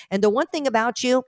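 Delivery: a burp slipping into the words. Real, not acted. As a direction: talk through a burp. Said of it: "excuse me, I'm burping on the truth".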